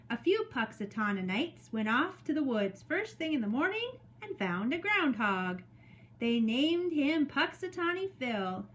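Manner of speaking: measured, expressive story reading; read-aloud to children. Acted. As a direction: read it to a class of young children. Reads story to second graders.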